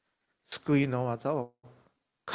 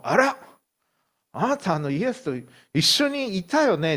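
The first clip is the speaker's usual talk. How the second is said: put-on accusing servant girl; 6 semitones higher, 4 dB louder than usual.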